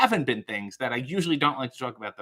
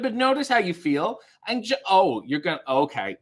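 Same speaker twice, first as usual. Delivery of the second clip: mock consoling; 2 semitones higher than usual. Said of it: "You were consoling Ben".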